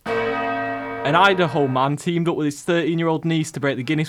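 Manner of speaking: measured newsreader delivery; news headline read. Acted. Host reading funny headlines to co-hosts, news read. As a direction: announce it like a news bulletin.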